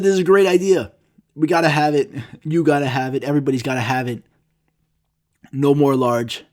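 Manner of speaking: hammed-up boardroom enthusiasm; mock excitement. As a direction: sell it like a proud executive. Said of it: "They said".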